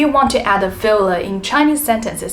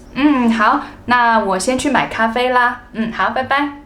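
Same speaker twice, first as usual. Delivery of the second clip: casual sign-off. Shown as a demonstration. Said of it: "state what we are going to do".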